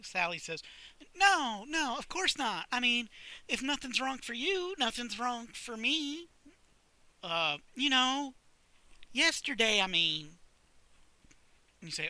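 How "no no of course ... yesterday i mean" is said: flustered librarian. Acted. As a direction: stumble over the denial. Sally flustered, voiced high.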